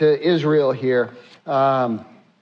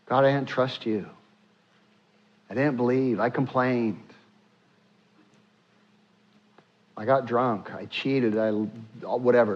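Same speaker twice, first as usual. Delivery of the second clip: hushed confession; 2 semitones lower, 5 dB quieter than usual. Acted. Voiced confession over the lamb.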